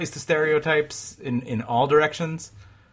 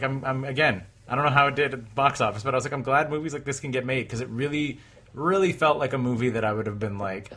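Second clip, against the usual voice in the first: usual speaking voice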